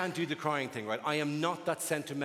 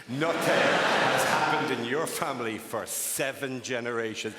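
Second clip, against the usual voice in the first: mock proclamation; 6 dB louder, slower than usual. Mock announcement of dull history.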